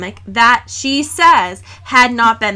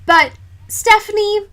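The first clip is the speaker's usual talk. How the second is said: exasperated appeal; 5 semitones higher than usual. Real, not acted.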